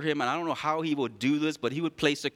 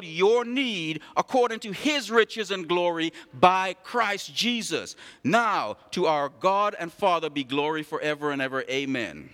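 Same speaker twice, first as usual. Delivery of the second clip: measured scripture reading, a touch raised. Acted. Pastor reading Philippians to the church, measured. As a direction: read the verses out with weight.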